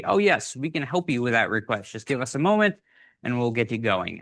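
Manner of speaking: lightly put-on polite helpdesk voice; a hint of a phone support agent; customer service voice. Shown as a demonstration. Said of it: "put on your customer service voice".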